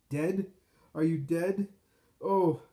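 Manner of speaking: high, loud questions ending in a cry; aghast, pitch leaping up; horrified disbelief. A narrator's reading. Gamaliel hearing of the death from the soldier, horrified.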